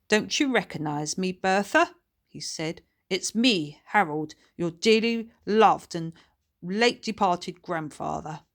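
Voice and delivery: a kindly spirit greeting his granddaughter; lightly voiced old grandfather; ghost grandfather Harold.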